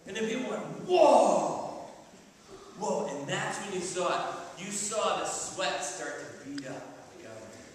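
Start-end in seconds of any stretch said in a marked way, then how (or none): 0.9-3.1 amazed crowd. Retold or imitated. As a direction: gasp in awe.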